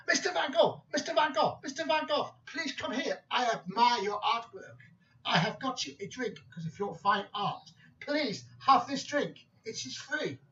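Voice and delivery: high-pitched, eager barman voice; calling him over. Acted. Barman calling the painter over for a drink, high-pitched. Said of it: "He called him over".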